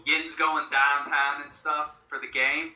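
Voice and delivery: slow, drawn-out Pittsburgh Yinzer demo; Pittsburgh Yinzer accent. Shown as a demonstration. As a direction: show a Pittsburgh accent, stretching "downtown". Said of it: "our hillbilly way of saying it".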